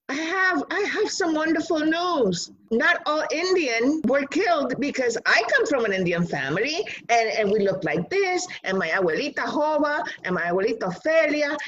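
put-on an eleven-year-old who can't wait to tell; eager child. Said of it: "and I said".

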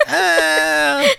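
high, drawn-out mock "uh"; half-hearted high scream imitation. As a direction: hold a high, silly open-mouthed cry. Imitating Paula's supposed scream face.

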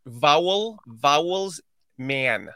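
"vowel, vowels, man" sounded out American-style. Shown as a demonstration. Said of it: "work on your vowel".

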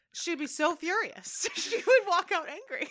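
high, loud, drawn-out emphasis; amused exclaiming. Real, not acted. Teasing co-host about mother's fury, amused exclaiming. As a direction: exclaim it with a laugh breaking in. Laughingly describing mother's outraged reaction.

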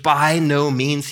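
BY NO MEANS slow and weighty; emphatic refusal. Retold or imitated. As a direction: stretch out "By no means" as a firm refusal. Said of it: "the most emphatic no possible".

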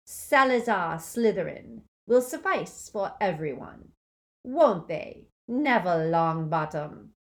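loud, high, sneering dark lord; mock the defeated crowd with loud scorn; Voldemort gloating. A narrator's reading. Dark lord taunting the defenders, loud sneer.

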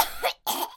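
soft, dry repeated coughs; sputtering little hacks; hacking cough. Acted. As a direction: cough as if clearing hair from your throat. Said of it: "Erg coughed".

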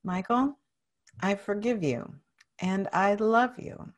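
measured, sincere affirmation; with conviction. Shown as a demonstration. Client repeats self-forgiveness after coach, with steady conviction. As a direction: say it firmly, a little restrained. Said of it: "Now say it with conviction".

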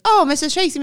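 shocked, trying to stop her; mild mock gasp of protest; flustered protest.

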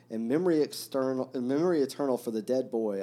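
with feeling. A narrator's reading. Alyosha honouring the dead boy, with feeling. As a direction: read it as an earnest tribute, lightly acted. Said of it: "added again with feeling".

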